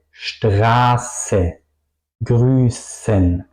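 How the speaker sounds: long vowel, held sharp S in "Straße, Grüßen"; tongue to upper teeth on the S of "Straße, Grüßen"; ese picante. Shown as a demonstration. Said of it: "mi lengua toca al final". ("Straße, Grüßen" con ese larga y picante)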